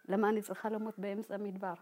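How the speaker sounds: quietly mumbled, half to herself; mumbling. Retold or imitated. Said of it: "ממלמלת". (מלמול שקט וחלש)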